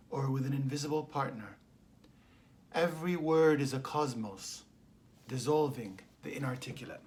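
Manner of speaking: measured poem recital with long pauses between phrases; poetry reading. Real, not acted. Poet reads a love letter to language, measured poetry reading. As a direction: let each phrase land, then fall away.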